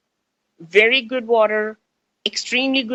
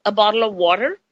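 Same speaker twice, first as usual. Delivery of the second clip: Indian accent; faster than usual. Shown as a demonstration. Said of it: "my accent is changing".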